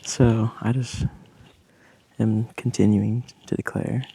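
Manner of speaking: a sudden loud, firm declaration; proud, emphatic statement at full volume. Real, not acted. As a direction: say it out loud so it can't be ignored. Declaring her own voice loudly.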